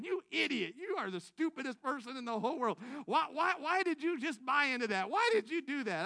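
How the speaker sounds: exasperated inner voice berating himself; mild self-scolding. Retold or imitated. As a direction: scold yourself for being a fool, half-joking. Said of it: "I'm kicking myself".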